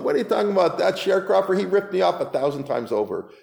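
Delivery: mock-outraged defendant; indignant protest. Acted protest against the accusation.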